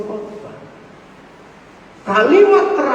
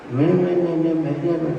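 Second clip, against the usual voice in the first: mock a toneless reading; flat monotone reading. Shown as a demonstration. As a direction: drone "me, me, me" all on one level note. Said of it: "jangan bacanya datar".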